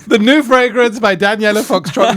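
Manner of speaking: slow, sultry fragrance advert voice; sultry perfume ad. Pretend. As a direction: purr it like a perfume ad. Announces a mock perfume ad.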